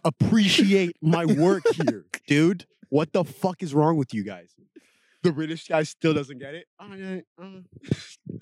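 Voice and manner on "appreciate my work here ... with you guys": slow, drawn-out mock boast; lightly voiced proud killer, slow. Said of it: "He's like".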